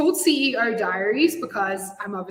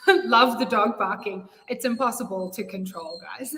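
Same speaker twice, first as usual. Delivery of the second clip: chuckling at the barking dog; laughing. Real, not acted. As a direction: laugh it off while you talk. Dog barking interrupts live session.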